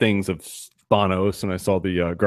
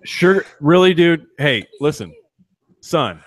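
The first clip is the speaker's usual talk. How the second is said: exasperated parent; 5 semitones higher than usual. Real, not acted. Calls out to son eating sugar.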